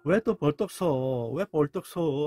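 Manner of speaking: slow, drawn-out mock lament; hammed-up mourning; acted sorrow. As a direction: draw the question out like a grieving onlooker. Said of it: "하면서 막 슬퍼하고 있는 모습".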